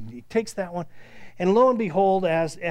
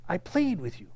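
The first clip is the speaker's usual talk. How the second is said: soft sincere plea; 3 dB quieter than usual. Shown as a demonstration. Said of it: "there's a deepness in that".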